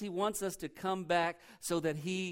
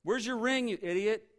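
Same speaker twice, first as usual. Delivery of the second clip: a higher, louder mock scolding of a son; imitated angry dad scolding his returning son, louder and higher; 7 semitones higher, 8 dB louder than usual. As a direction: bark the questions like an exasperated father. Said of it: "his dad didn't say".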